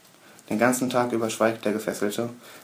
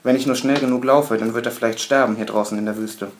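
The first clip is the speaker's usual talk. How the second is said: hysterical; 4 dB louder than usual. Acted. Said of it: "hysterisches Lachen".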